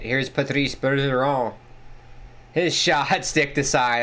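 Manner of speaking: light mock French accent on the names; French impression. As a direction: put on a playful French accent. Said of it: "That's my best French impression".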